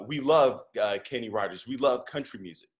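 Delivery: a lightly put-on Nigerian accent; a gentle, imperfect Nigerian accent; horrible Nigerian accent. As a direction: keep up the driver's Nigerian accent, a bit clumsily. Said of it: "I'm doing a horrible Nigerian accent".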